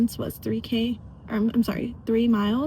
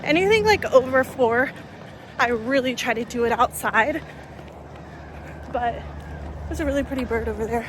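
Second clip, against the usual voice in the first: talking mid-run, a bit breathless; while running. Real, not acted. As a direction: speak between strides. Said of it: "I'm not very good at talking and running".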